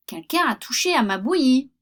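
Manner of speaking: mama bear complaining, moderately loud; voix moyenne de l'ours moyen; middle bear's voice. Acted. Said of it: "dit-il de sa voix moyenne".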